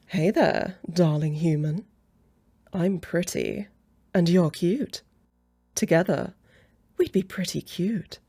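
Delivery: confident, showy come-on in measured phrases; coy, pleased-with-yourself charm; flirty pickup line. Acted. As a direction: play your best flirting card. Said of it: "let me pull out the ace in my sleeve".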